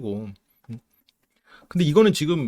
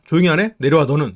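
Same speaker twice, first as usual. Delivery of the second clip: imitated scolding; 6 dB louder than usual. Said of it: "이러면서 바로 혼내버린단 말이지".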